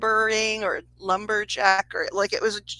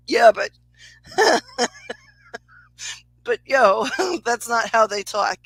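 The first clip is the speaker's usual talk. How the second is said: laughing retort; 3 semitones higher, 5 dB louder than usual. Retold or imitated.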